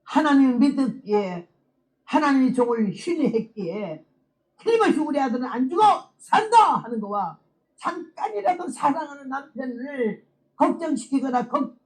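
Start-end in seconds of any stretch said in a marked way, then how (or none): 5.0-6.8 rising to a loud, high cry of faith; loud defiant declaration. Retold or imitated. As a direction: declare it like a mother who refuses to lose her son.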